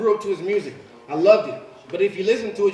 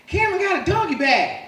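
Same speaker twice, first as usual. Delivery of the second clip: put-on much higher childish tattle; kid voice; 12 semitones higher, 4 dB louder than usual. Sons telling dad about Cameron, high kid voice. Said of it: "They're like".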